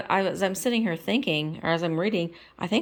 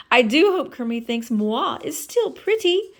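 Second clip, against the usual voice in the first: Miss Piggy voice; 7 semitones higher, 5 dB louder than usual. Acted.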